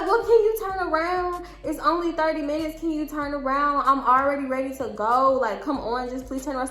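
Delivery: retold begging, starting high. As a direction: imitate pleading with a boyfriend to come back. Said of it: "I'm begging him some more".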